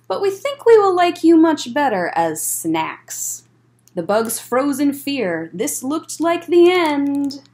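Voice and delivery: lively storybook read-aloud; bouncy rhyming picture-book narration; reading to children. A narrator's reading. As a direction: read it like story time for kids.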